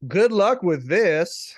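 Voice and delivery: loud, very slow, weighty 'this'; underlined THIS. Retold or imitated. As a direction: read it out slowly, stretching 'this'. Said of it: "I'm gonna underline the this".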